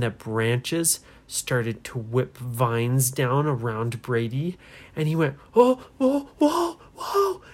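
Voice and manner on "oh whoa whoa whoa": high, loud cries of alarm; panicked yelling. A narrator's reading. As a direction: yelp as if being grabbed. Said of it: "he started yelling".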